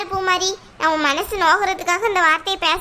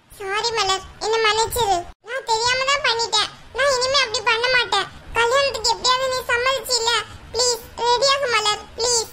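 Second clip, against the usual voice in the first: tearful pleading; 2 semitones higher than usual. Acted. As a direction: beg her through held-back tears. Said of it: "ஏன் பூமாரி அழுற?". (அழுகையோடு கெஞ்சல்)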